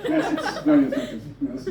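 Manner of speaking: mock German baker. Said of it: "They're like".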